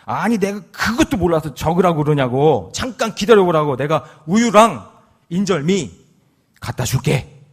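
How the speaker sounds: hammed-up old wife telling him off; mock angry wife. Grandma snapping at grandpa, mock angry. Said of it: "화를 내면서".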